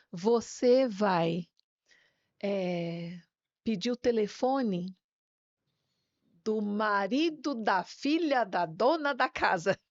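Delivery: slow, spaced-out retold command; measured retelling of a solemn order; deliberate dream instruction. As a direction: draw out each phrase of the instruction. Jesus giving instruction in dream.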